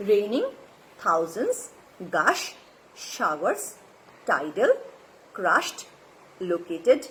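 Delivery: word list read one by one, each lifting at the end; teacher's careful word-by-word pronunciation list; pronunciation demo. Shown as a demonstration. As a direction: model each English word separately, pausing between. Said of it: "সেই শব্দগুলোর উচ্চারণ".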